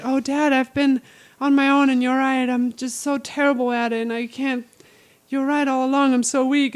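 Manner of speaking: mock helpless daughter. Daughter fakes weakness to fool her dad. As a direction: ham up playing dumb and weak.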